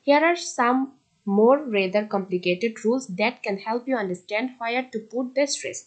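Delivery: reads the English rule out word by word; measured classroom read-aloud; slow textbook reading. Acted. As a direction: dictate it slowly to the class.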